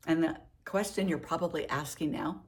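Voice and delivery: talking with a mouthful; mouth full. Real, not acted. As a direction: speak around food in mouth. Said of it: "sorry, I have something in my mouth".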